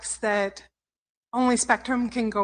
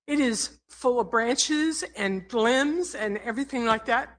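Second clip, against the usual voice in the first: ordinary talk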